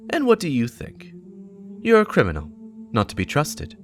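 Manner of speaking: a hint of a stern warlock; Aonor voicing. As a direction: press him hard as Aonor. Aonor voiced in read story.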